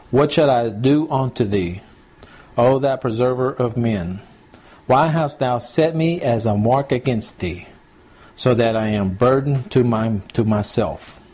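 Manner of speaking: put-on slow, measured reading of old Bible words; slow scripture reading. Preacher reading Job aloud to the congregation, slow and solemn. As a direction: read the verse slowly, weighing each line.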